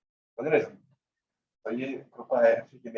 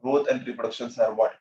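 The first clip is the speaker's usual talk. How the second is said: slow prompt; much slower than usual. Shown as a demonstration. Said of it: "slow fill-in prompt".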